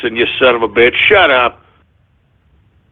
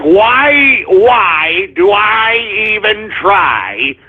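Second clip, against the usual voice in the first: weary lament; much slower than usual. Retold or imitated. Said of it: "sometimes I'm like".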